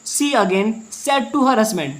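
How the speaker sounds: reads each word slowly, spaced out; slow reading aloud. Shown as a demonstration. Teacher dictating the English line slowly for students. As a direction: spell the sentence out slowly for the class.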